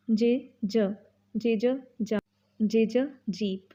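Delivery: ज clipped short, slow; j sound drill. Shown as a demonstration. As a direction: stop ज short, not जा. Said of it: "हम जा नहीं बोलेंगे".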